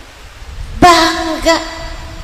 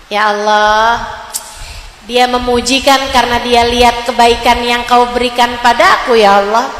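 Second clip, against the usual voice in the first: humble prayer; 5 semitones lower than usual. Acted. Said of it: "Ada yang memuji, ingat Allah". (doa lirih dan rendah hati)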